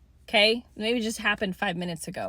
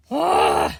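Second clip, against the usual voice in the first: burp; 6 dB louder than usual. Real, not acted. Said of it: "I'm burping".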